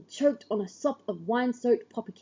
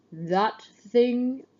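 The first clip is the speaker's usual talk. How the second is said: scornful; 2 semitones higher, 4 dB louder than usual. A narrator's reading. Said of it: "His voice is full of scorn".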